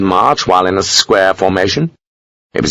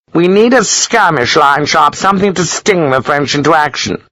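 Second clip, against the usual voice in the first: pompous Gibbons; 7 semitones higher than usual. A narrator's reading. Gibbons ordering skirmish line.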